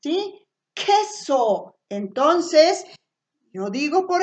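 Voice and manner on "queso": "Queso" with a crisp opening k sound; sound demonstration. Shown as a demonstration. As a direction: say "Queso" clearly, syllable by syllable. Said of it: "escuchará el sonido".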